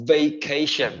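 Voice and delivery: "vacation" drawn out as "vay-KAY-shun"; careful pronunciation model. Shown as a demonstration. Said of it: "từ này đọc là".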